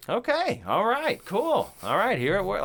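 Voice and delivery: high-pitched, upbeat mock readiness; eager agreement. Crew member taking on the exploding microwave job, eagerly agreeing. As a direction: play someone raring to get going. Acted eager reply to day's task.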